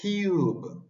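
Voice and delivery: cube with a puff of air on the k; aspirated k. Shown as a demonstration. Teacher modelling cube with aspiration. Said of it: "esto sería cube".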